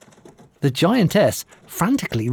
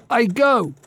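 scornful giantess; 9 semitones higher than usual. Acted. Giantess leaves with a threat.

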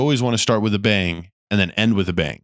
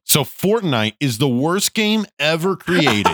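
provocative teacher; 8 semitones higher, slower than usual. Retold or imitated. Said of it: "just be like".

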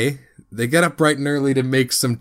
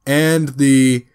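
offhand Tyrion; 3 semitones higher, slower than usual. Retold or imitated. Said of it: "Tyrion's like".

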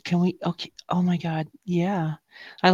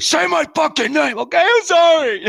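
higher, louder mock command; mock demand; 11 semitones higher, 6 dB louder than usual. A partner demanding her name, mock loud. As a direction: bark the demand then cave. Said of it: "she's like".

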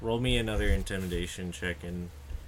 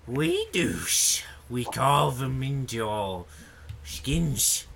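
goblin voice. Acted. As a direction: answer like a goblin. Goblin answers the interrogation.

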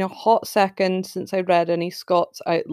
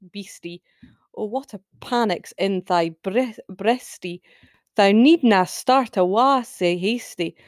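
measured Scots poem recital; poem reading. Acted. Reads Burns poem in Scots.

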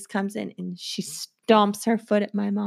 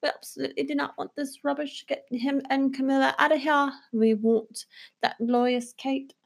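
mock British public; 4 semitones higher than usual. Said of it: "people will decide".

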